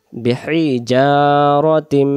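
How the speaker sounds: slow, drawn-out বিহিজারতিম; slow recitation. Shown as a demonstration. Teacher reciting the word slowly for students. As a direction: stretch every syllable of বিহিজারতিম.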